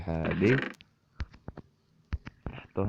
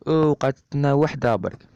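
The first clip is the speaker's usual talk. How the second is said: surprised; 6 semitones higher, 5 dB louder than usual. Real, not acted. Surprised at the loot count.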